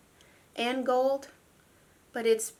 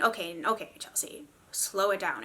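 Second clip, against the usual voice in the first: whispering; 4 semitones lower, 6 dB quieter than usual. Real, not acted.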